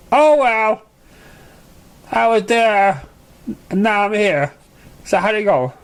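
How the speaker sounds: high, bubbly pony voice popping up; Pinkie Pie voice. A narrator's reading. Pinkie Pie surprising Apple Bloom from behind, high and bubbly. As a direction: sneak up and chirp it cheerfully. Pinkie explains her appearance.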